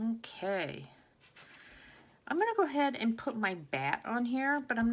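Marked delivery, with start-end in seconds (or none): 0.1-0.8 whispered to self. Real, not acted. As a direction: breathe it out to yourself. Mutters while working on card.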